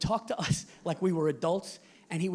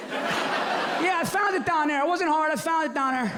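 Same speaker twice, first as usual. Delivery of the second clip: dad voice; 7 semitones higher than usual. Retold or imitated. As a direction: boast of finding it.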